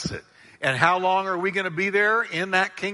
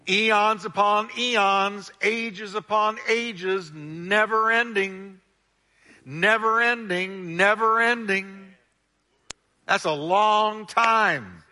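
slow emphatic preaching; 4 semitones higher, much slower than usual. Real, not acted. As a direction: stretch each phrase out, pressing on never. Preacher stressing endless time.

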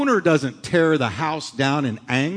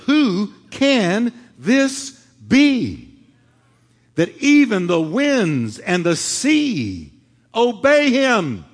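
very slow, amazed question; frightened disciples asking who Jesus is, slow and awed; 4 semitones higher, 3 dB louder, much slower than usual. Acted. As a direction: ask it in wonder, drawn out. Disciples in awe.

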